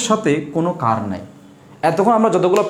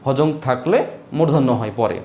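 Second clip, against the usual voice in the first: slow rule recital; 3 semitones lower, slower than usual. Shown as a demonstration. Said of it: "নিয়মটি হচ্ছে এরকম".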